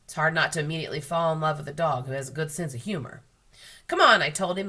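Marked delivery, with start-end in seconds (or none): 3.9-4.2 high, loud quick call; calling a dog. A narrator's reading. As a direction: urge the dog along, much louder.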